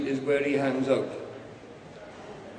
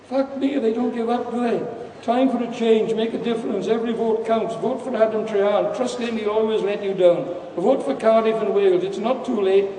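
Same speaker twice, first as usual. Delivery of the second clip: higher, sing-song mocking of election slogans; sneering parody of a party canvasser; 6 semitones higher than usual. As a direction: parrot the campaign slogans in a silly voice.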